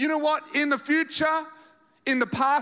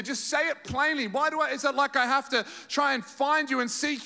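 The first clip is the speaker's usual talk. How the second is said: higher, pressing mock plea; pleading disciples; 5 semitones higher than usual. Preacher voicing disciples pressing Jesus for answers, high and pleading. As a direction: act out the impatient followers.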